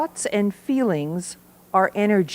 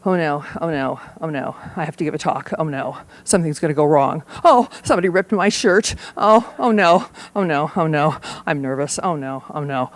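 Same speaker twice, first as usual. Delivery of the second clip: mock worrying; 3 semitones lower than usual. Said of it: "That's the worrying use".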